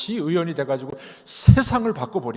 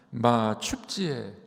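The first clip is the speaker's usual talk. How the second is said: coaxing Gyeongsang; 4 semitones lower, much slower than usual. Retold or imitated. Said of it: "다시 물어봅니다".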